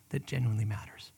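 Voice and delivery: low whisper to land the point; whispered emphasis. Real, not acted. Pastor landing his point for listeners, whispered. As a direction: sink to a whisper.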